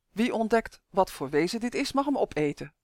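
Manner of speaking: measured, understated proclamation; solemn announcement. A narrator's reading. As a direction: announce it formally to the gathered pupils. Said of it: "kondigde Janus plechtig aan". (plechtige aankondiging)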